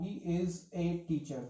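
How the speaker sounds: slow, careful reading of the correct sentence; slow model sentence. Shown as a demonstration. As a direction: read it out slowly like a model answer. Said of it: "दूसरा मैं option दे रहा हूं". (धीमे, साफ़ उदाहरण वाक्य)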